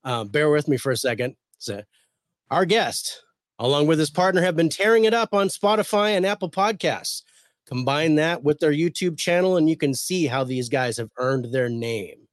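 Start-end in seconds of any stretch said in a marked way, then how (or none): 2.5-12.3 ring announcer voice. Acted. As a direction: hype the crowd like a ring announcer. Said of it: "get my ring announcer voice on".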